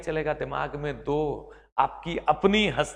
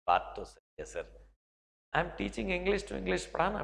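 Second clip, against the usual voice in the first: convinced student; 8 dB quieter than usual. Pretend. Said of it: "आप जरूर कहेंगे".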